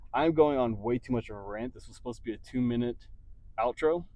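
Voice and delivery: breathless after a workout; talking while still out of breath. Real, not acted. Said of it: "as you can hear, I'm out of breath".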